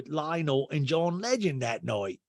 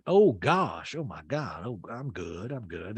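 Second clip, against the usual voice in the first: Sutton; 3 semitones lower, slower than usual. Retold or imitated. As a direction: mimic a guest deflecting, fading away. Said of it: "And Sutton's like".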